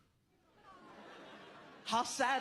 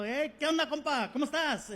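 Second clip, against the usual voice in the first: higher, chummy Spanish hail; friendly greeting; 5 semitones higher than usual. Retold or imitated. Comic greeting the guy at the stand, friendly. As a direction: greet him brightly like an uncle.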